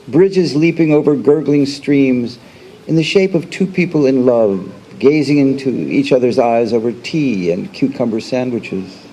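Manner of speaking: deliberate recital, each line lifted then falling away; poetry reading. Acted. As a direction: recite it image by image, pausing between lines. Reads poem aloud.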